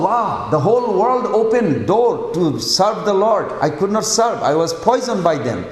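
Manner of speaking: a touch of delighted awe; happy amazement. Acted. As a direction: lightly act joyful discovery. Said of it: "he was so happy".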